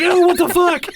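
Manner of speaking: high, loud shocked yell; high-pitched outraged shout; retold shout. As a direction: yell in disbelief at the dog.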